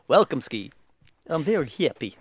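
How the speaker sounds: comic put-on Russian accent; mock Russian accent. Showing the co-host a Russian welcome, mock Russian accent. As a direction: have a playful go at sounding Russian. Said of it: "give me a Russian accent".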